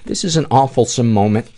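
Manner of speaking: usual speaking voice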